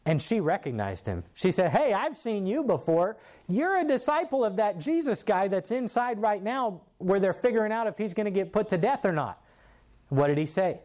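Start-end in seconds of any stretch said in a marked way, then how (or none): 1.7-9.4 lady calling out Peter, pitched higher; single him out in a raised pitch; mild retold accusation.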